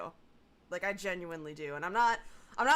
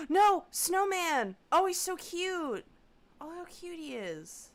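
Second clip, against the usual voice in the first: high, loud delighted squeal; excited squeal; 9 semitones higher, 6 dB louder than usual. Real, not acted. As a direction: gush over something adorable. Gasps at cute snowman icon.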